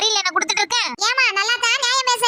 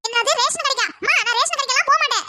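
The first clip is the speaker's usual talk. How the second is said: put-on higher, huffy young girl voice; indignant teen daughter; 5 semitones higher than usual. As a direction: refuse the errand like a spoiled teen. Daughter refuses errand indignantly.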